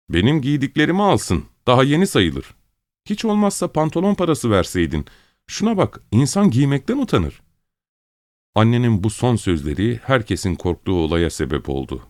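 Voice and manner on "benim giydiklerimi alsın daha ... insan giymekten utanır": higher, plaintive mother's voice; complaining mother. A narrator's reading. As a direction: scold her husband about the trousers. Mother complains about clothes.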